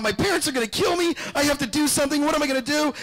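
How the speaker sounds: high, hammed-up panic, shouting; mock frantic teenage fear; a guilty teen losing it; freaking out. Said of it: "He starts freaking out".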